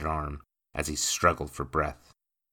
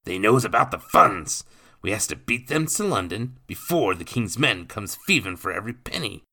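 loud, rough cockney thief in a hurry; urgent cockney rogue; 5 semitones higher, 6 dB louder than usual. Acted. Thief to the boy, urgent cockney. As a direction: hustle the boy along. Nathan warns of magistrate.

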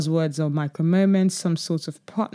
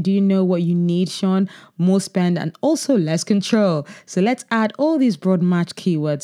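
Google rep voice. Acted. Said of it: "That's a perfect Google rep accent".

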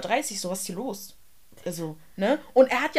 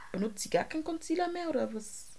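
catty whisper; 7 semitones higher, 7 dB quieter than usual. Real, not acted. Catty remark on Kim's makeup.

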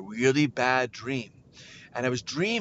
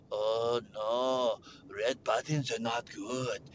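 low, slow friend voice; worried friend; 5 semitones lower, 4 dB quieter, much slower than usual. Retold or imitated. Josh warns his friend off the button, low dread. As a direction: warn in a low, drawn-out voice.

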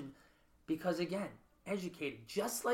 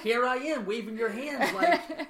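louder, higher plea to be noticed; pleading for attention; 7 semitones higher, 8 dB louder than usual. Retold or imitated. Daughter to mother, raised pleading voice. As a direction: cry out to be seen by a busy parent.

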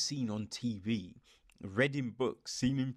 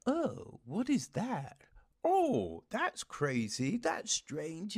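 mock amazement; 5 semitones higher, slower than usual. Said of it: "characters in these programs act like".

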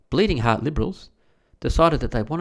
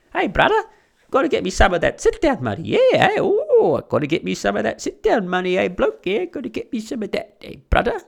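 mock Aboriginal Australian accent; 8 semitones higher than usual. Mocking Aboriginal dole recipients he describes, high mock Aboriginal Australian accent. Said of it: "That's how they talk".

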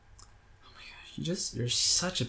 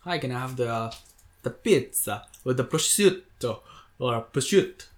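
mock Italian pronunciation. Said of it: "the whole time he was like".

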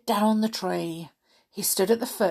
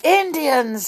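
high, loud shout of the password; 9 semitones higher, 6 dB louder than usual. Acted. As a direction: yell it at the door. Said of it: "he shouted".

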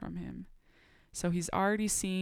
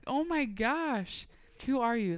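higher, slow outraged retort; indignant; 5 semitones higher, slower than usual. Retold or imitated. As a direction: fling it back in disbelief.

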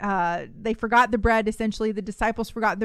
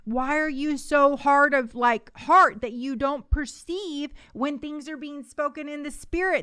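exasperated Jesus; 4 semitones higher than usual. Retold or imitated. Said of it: "He was like".

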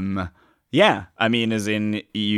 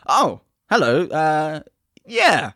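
higher-pitched customer voice; 9 semitones higher, 4 dB louder, much slower than usual. Acted. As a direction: play the eager customer. Customer character in sketch.

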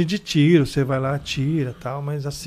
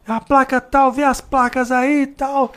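put-on old cop ordering; 9 semitones higher than usual. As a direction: push the rookie to call it in. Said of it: "Porque ele fala".

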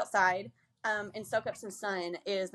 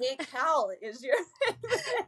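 teasing, laughing; 5 semitones higher than usual. Retold or imitated. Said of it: "I always tease him and be like".

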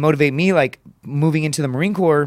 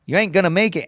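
a hint of the coach, higher at first then settling; lightly voiced coach taunt; mild coach impression fading to own voice; coach's taunt; 4 semitones higher than usual. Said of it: "he would literally say".

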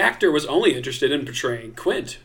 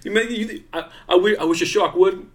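mock mobster laughing; 5 semitones higher than usual.

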